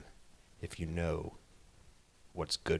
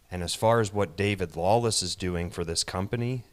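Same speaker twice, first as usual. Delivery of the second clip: louder and quicker, pushing the words; loud promo; 7 dB louder, faster than usual. Acted. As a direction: sell it like a wrestling promo. Wrestling promo boast.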